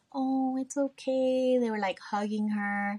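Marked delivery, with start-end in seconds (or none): 0.1-1.6 mock comforting. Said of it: "everybody just rushed over to her and was like".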